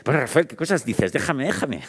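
más agudo, quitándole importancia; azorada. Retold or imitated. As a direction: imita a la jefa apurada, más aguda. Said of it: "Decía". (jefa azorada, voz más alta y apurada)

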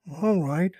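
lightly voiced quick rabbit. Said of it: "replied Peter promptly".

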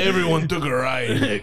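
put-on Midwestern wife slipping into a Mexican accent, laughing; accidental Mexican accent. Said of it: "I just turned into Mexican".

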